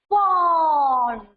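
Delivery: "Pond" with a long, drawn-out o. Shown as a demonstration. Teacher modelling "Pond" for the class, vowel drawn long. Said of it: "we make a long sound".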